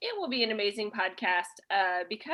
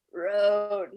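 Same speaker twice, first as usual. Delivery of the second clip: put-on old Nona; 3 semitones lower than usual. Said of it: "like, an old Nona".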